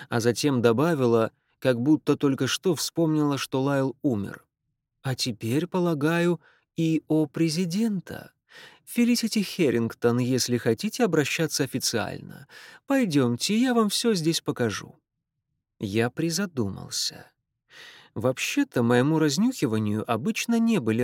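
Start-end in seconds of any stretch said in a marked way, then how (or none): 5.0-15.0 put-on Irish accent. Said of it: "сильный ирландский акцент".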